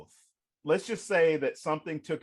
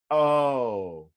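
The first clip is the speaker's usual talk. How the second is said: mom realizing; 2 semitones lower, 4 dB louder, slower than usual. Retold or imitated. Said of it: "she's like, gasps".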